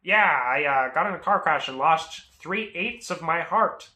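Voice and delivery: loud, drawn-out imitation of a driver; oversharing driver. Tow driver telling buyer about a crash, oversharing. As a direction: overshare loudly and casually in character. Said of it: "Mac starts oversharing".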